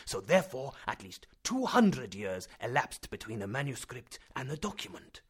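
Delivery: a hint of a lecturing professor; lightly voiced professor. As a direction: reason it out like a stern scholar. Professor reasons aloud.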